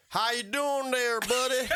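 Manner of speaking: high, slow, drawn-out mock Australian; hammed-up attempt at an Australian accent; bad Australian accent. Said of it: "do an Australian accent".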